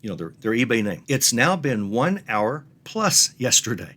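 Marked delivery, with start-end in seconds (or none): 1.1-3.9 slow, deliberate, mildly snarky; measured, lightly pointed reminder; a little snarky. Acted. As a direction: spell it out slowly with a touch of snark. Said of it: "This is a little bit snarky".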